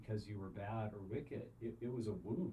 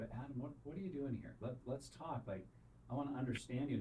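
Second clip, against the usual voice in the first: curious, compassionate; 2 semitones higher than usual. Retold or imitated. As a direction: invite him to talk, tender. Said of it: "filled with curiosity and compassion".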